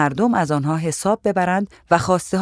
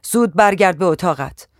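shouting; 4 dB louder than usual. Acted. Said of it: "بر سرم داد زد".

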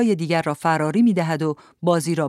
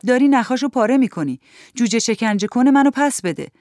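high, raised cry of protest; shouted demand; 6 semitones higher, 4 dB louder than usual. A narrator's reading. Child to Edgar grabbing the record, shouted protest. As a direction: cry out to get it back. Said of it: "فریاد کشیدم و صفم را خواستم".

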